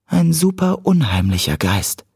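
put-on high-pitched girl's teasing verdict; Cat, insisting. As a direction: pitch it well up as Cat, dropping at the end. (hohe Mädchenstimme, nachdrücklich)

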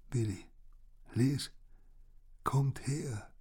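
high, breathy, feeble call; weak voice. A narrator's reading. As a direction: call them over with little strength. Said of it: "hörte ich Boss' schwache Stimme hinter mir". (mit schwacher Stimme gerufen)

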